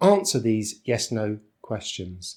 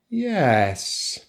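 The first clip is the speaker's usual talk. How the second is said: "Yes" stretched, falling with doubt; unsure, drawn-out "Yes"; fall-rise for maybe. Shown as a demonstration. Teacher models yes but maybe, uncertain fall-rise. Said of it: "the full rise for maybe".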